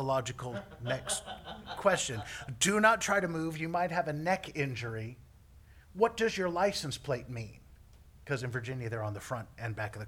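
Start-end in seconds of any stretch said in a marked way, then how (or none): 2.6-5.2 milder replay of the urgent warning; toned-down imitation of a yell; mock paramedic. Repeats paramedic's words, milder, mocking. 5.9-7.6 milder replay of the shouted question; toned-down imitation of a yell; mock question. Repeats question, milder, mocking.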